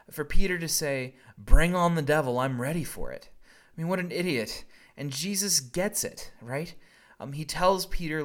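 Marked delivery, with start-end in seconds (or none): 1.3-3.3 cocky boast. Pretend. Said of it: "the level of hubris".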